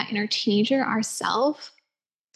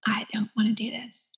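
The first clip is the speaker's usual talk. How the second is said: whispered refusal; 5 dB quieter than usual. Retold or imitated. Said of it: "So angry".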